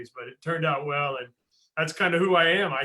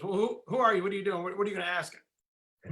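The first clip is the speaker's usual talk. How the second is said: suspicious coach; 5 semitones higher than usual. Retold or imitated. Coach questioning him.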